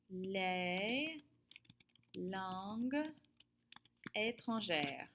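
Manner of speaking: slow "les ... langues ... étrangères" with long pauses between words. Shown as a demonstration. Teacher gives class the answer, word by word with long pauses.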